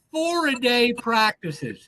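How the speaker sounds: FOUR-A-DAY drawn out slow and strong; slow, weighty stress on four-a-day; emphatic reveal. Real, not acted. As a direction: stretch out "four-a-day" for disbelief. Emphasizing an unheard-of practice schedule.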